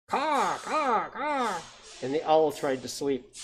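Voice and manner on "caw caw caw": mock bird scream in long caws; screaming jay. A narrator's reading. Storyteller voicing jays that keep owl awake, mock screaming. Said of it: "The jays screamed".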